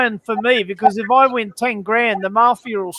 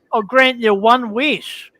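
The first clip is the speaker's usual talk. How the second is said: genie voice; slower than usual. Acted. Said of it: "the genie comes out and he says".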